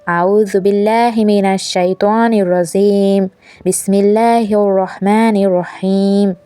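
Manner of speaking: put-on slow, careful Quranic recitation for the children to follow. Shown as a demonstration. Mother leading her daughters in recitation, slow and careful. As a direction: recite slowly so the girls can repeat each word. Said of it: "আমার সঙ্গে বলো".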